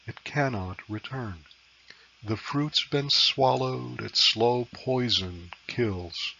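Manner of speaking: poetry reading. Acted. Reads own sonnet aloud.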